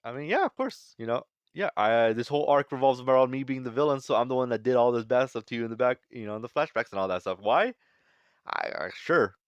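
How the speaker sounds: mock villain. Reviewer mocking Saturn admitting his villainy, light goofy voice. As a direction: play the villain as a clueless pushover. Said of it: "Saturn's like".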